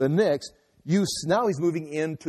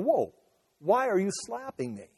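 higher-pitched acted challenge; indignant question, pitched up; startled objection; 4 semitones higher than usual. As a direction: call a halt and ask why. Acting Jesus challenging the slap.

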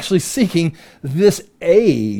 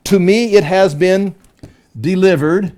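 "To me" high and separated, a pause before "delivered"; emphatic; 4 semitones higher than usual. Acted. Satan claiming delivered authority, emphatic. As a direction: stake a claim on "To me", pitched up. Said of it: "Emphatic in the second part".

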